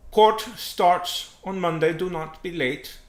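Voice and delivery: loud, slow, high-pitched command; stern order. Acted. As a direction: lay down the terms emphatically. Germany orders Italy to court.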